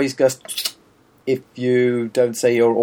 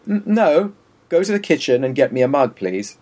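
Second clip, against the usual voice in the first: bossy, clipped order for a mug; mock-rude insistence; half-hearted snooty customer; rude demand. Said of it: "Do you say that, that rudely?".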